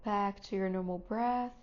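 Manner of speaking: calm, unhurried guidance with long pauses; guided meditation. Real, not acted. Teacher settling students into seat, breath and body, guided meditation voice. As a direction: ease them gently into stillness, phrase by phrase.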